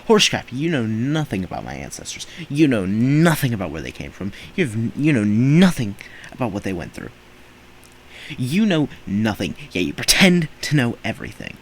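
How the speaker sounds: worked-up, emphatic telling off; emotional rant. Real, not acted. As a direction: let the anger spill out at them. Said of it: "Sorry if I got quite a bit emotional there".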